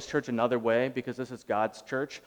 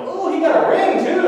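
put-on Spanish accent; 9 dB louder than usual. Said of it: "that same lady out in the audience go".

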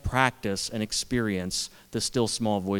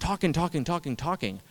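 fading chatter; 3 semitones higher, 5 dB quieter than usual. Shown as a demonstration. Endless talking fading out.

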